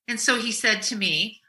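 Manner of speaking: usual speaking voice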